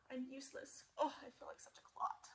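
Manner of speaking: soft, dejected self-talk; sad quiet. Acted. Gerald alone, softly despairing. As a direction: mutter it down to yourself. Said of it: "he thought".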